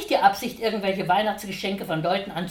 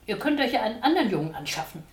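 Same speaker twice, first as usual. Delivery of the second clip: trembling voice; 4 semitones higher, 4 dB louder, much faster than usual. Acted. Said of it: "mit zitternder Stimme".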